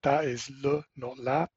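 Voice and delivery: "le" said the French way, then "la". Shown as a demonstration. Host showing French articles to a listener, le versus la. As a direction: contrast "le" and "la" in careful French. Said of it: "the French have got this thing about masculine and feminine".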